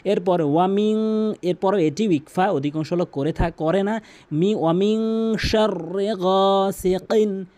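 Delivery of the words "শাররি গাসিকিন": গাসিকিন slowly, with the ক from the back of the tongue; deep qaf. Shown as a demonstration. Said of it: "কফের উচ্চারণ কিন্তু অবশ্যই ভালো করে". (গভীর কফ)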